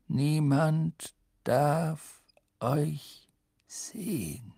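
"Niemand - darf - euch - sehen" very slowly, word by word; emphatic warning. A narrator's reading. Headmaster hammering home the rule, slow and emphatic. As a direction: separate every word with a weighty pause.

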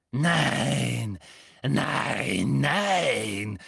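delighted. A narrator's reading. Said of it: "sagte Bellatrix. Sie schien entzückt".

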